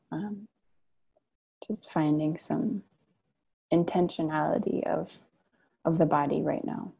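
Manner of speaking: unhurried meditation guidance with long pauses; guided meditation. Real, not acted. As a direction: guide them gently into stillness, pausing between phrases. Leads a guided sit.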